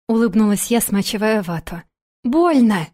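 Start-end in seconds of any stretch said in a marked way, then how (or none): 2.2-2.9 serious and even. Acted. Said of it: "серьёзно и ровно подтвердила она".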